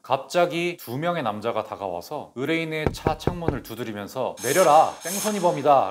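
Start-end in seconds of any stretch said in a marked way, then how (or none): 4.4-5.9 a mild mock yell, a bit louder; retold shout. Two men banging on the car window, retelling their yell in a mild mock shout. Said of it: "라고 소리를 질렀습니다".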